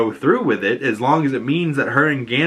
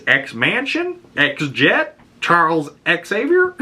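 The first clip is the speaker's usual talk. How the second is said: excited; 6 semitones higher, slower than usual. Retold or imitated. Gleefully listing X names.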